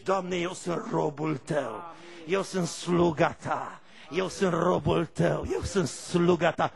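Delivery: slow, earnest "Doamne, eu sunt robul tău"; humble prayer. Shown as a demonstration. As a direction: pray it slowly and humbly.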